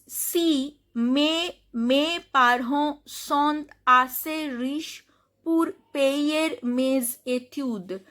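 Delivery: "si mes parents" sentence read slowly, word by word; French reading demo. Shown as a demonstration. Teacher reads another sentence aloud, slow pronunciation demo. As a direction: slowly model each French word for learners. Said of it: "You can see another sentence".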